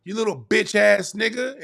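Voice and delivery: high, sneering insults from the mother; cruel mom. Retold or imitated. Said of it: "The mom said".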